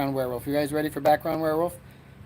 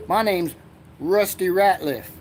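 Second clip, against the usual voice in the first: character voice; 3 semitones higher, 3 dB louder, slower than usual. Acted. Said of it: "they made a new character".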